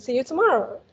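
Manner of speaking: "See you tomorrow" with a lift and fall on "tomorrow". Shown as a demonstration. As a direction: model "See you tomorrow" with a lively tune. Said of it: "put more intonation".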